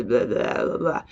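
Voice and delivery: low, blurred American drawl; mock American drawl. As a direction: imitate a drawling American with nonsense syllables. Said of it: "with a very kind of drawl".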